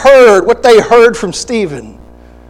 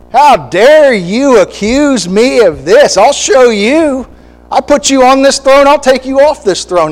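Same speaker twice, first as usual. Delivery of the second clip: Abner's angry fit; 5 semitones higher than usual. Retold or imitated. Preacher voicing Abner threatening the king, mock angry outburst. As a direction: throw a prideful tantrum at the king.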